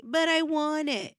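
put-on high, slow whining child; whiny child. Mother voicing her daughter whining for candy, high and slow. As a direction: whine like a toddler wanting candy. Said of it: "child whining for candy".

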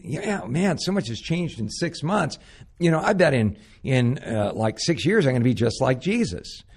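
a hint of a cocky new believer; naive young self. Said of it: "I remember sitting there thinking".

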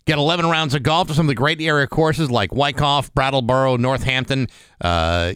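chipper 1950s ad. Acted. Reads golf club promo ad.

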